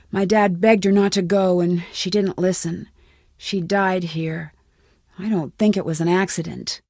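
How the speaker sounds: low, softening, somber confession; subdued sorrow. Acted. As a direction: let the voice sink as you recall a death. Tells of her mother's death.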